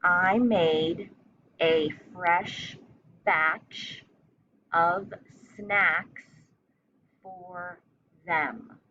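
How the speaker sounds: chunked into short phrases with pauses between; teacher dictating a sentence; slow dictation. Shown as a demonstration. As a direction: dictate it piece by piece for young spellers. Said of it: "So just listen twice".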